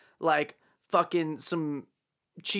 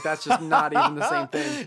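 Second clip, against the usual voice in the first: laughing self-quote; 4 dB louder than usual. Retold or imitated. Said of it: "and then I was like".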